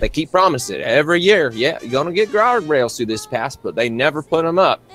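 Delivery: lightly voiced friendly backwoods fella, easygoing; a hint of a folksy stranger, unhurried welcome; folksy country mechanic. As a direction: play a chummy small-town grease monkey. GM voices Judas complaining.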